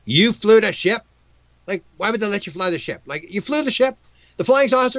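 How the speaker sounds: rising astonished questions; incredulous disbelief. Retold or imitated. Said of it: "I'm going".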